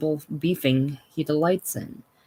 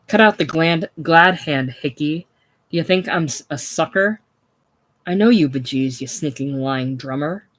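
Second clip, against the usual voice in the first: louder, bristling snap at Hickey; angry; 4 dB louder than usual. Acted. Hope turning on Hickey after the handshake, angry. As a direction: throw his glad hand back at him. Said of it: "jerks his hand away angrily".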